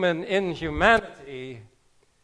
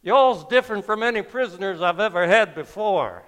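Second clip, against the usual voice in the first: put-on southern accent; 3 semitones higher, faster than usual. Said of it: "mellifluous southern accent".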